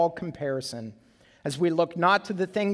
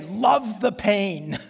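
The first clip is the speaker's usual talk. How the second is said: coaxing dad; 2 semitones higher, much slower than usual. Retold or imitated. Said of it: "I would say".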